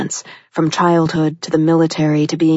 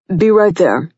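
calling back; 4 dB louder than usual. A narrator's reading.

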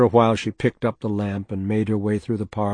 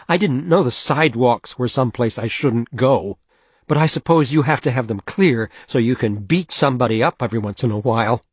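sarcastic; 2 semitones higher, 4 dB louder than usual. Acted. Sarcastic angry wife.

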